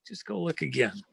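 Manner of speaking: soft, calm repeat; calm and steady. Retold or imitated. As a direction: gently send him back out to look. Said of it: "very calmly".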